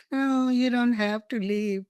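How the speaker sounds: mild sweet tone. Retold or imitated. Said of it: "in this sweet tone".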